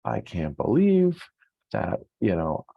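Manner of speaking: mock lament, pitched well up and dragged out; hammed-up dismay at lost years; regretful self-talk. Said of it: "you're saying things like".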